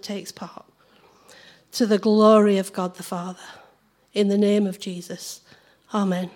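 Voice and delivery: earnest, gentle church prayer. Acted. Returns to praying.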